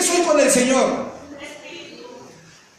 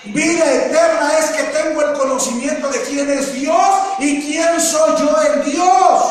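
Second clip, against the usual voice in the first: repeated louder and higher, last words slowed; preaching shout; 3 semitones higher, 4 dB louder, slower than usual. Shown as a demonstration. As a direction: proclaim it to the congregation. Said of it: "repite la frase más fuerte". (repetición gritada como predicador)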